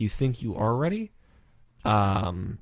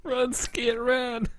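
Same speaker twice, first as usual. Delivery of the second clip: redneck Forrest line; 12 semitones higher, 5 dB quieter, much slower than usual. Acted. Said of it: "Forrest, Run with Skit ... redneck way".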